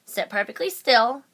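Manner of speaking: loud, firm order; stern command. A narrator's reading. The strict teacher ordering the kids to freeze, loud and firm. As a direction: bark it at the class.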